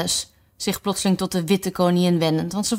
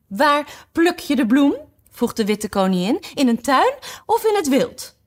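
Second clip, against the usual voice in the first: fussy White Queen; 9 semitones higher than usual. Acted. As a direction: question her like a muddled old lady. White Queen questions, high voice. (hoge, verwarde vragende stem)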